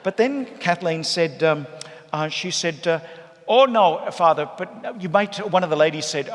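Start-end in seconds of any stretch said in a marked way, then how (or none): 3.5-5.3 put-on much higher and louder, protesting old Irish woman; old lady's voice. Rosary lady at the wake urging Father, high and loud. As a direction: squeal it like a shocked rosary lady.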